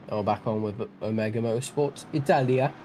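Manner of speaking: lightly put-on bad Italian accent; a hint of a jokey Italian accent. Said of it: "That's my really bad Italian accent".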